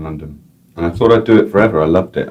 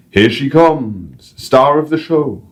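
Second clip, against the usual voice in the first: put-on slow showman intro in a Northern English accent; mild Northern English accent; 8 semitones higher, slower than usual. Guide to the crowd, Northern English accent. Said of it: "random North English accent".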